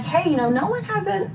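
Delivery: high, breathy near-whisper; hushed worried sister. Retold or imitated.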